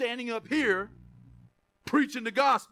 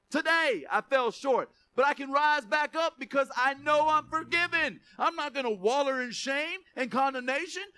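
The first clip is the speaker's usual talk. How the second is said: passionate declaration; 5 semitones higher than usual. Shown as a demonstration. Preacher modelling testimony for graduates, fervent. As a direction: proclaim it with rising fervour. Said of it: "You say it like that".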